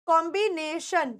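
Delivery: कॉम्बिनेशन drawn out slowly in separate chunks; slow teaching breakdown of कॉम्बिनेशन; syllable-by-syllable कॉम्बिनेशन. Shown as a demonstration. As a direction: sound out कॉम्बिनेशन piece by piece for a learner. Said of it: "word को सही तरीके से pronounce कीजिए".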